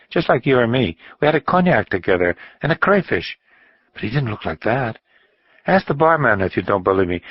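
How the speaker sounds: high, eager voice of a tipsy man insisting he is right; a drunk friend pressing his story, pitch up; tipsy insisting companion. Acted.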